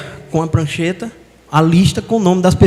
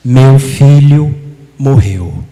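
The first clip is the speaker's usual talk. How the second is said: tearful; 3 semitones lower, 5 dB louder, much slower than usual. Retold or imitated. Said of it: "Ela começa a chorar e diz".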